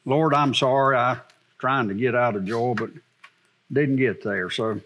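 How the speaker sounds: low, subdued prayer voice; closing prayer. Real, not acted. Preacher praying to the Lord after the sermon, low and subdued. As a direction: bring it down into a humble prayer.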